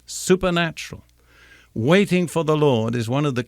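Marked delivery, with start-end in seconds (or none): 0.0-1.0 "supernatural" lifted higher and set apart; single out the word "supernatural" with a raised pitch; emphasized word. Shown as a demonstration. Preacher stressing the key word for his hearers, lifted high. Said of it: "I want to emphasize that word".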